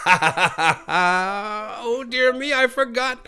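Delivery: high little-creature voice, mock surprise; small creature Teddy, fussy and polite. Teddy's voice continues.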